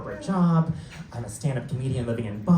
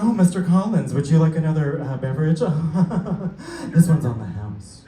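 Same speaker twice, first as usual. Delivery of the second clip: louder, laughing flirty host; flirty attendant; 3 dB louder than usual. Retold or imitated. Flight attendant flirting with a passenger's dad, a louder laughing purr. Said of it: "I was like".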